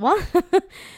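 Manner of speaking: high, loud burst of laughter. Real, not acted. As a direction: break into a real laugh mid-story. Amused mention of mum's best friend.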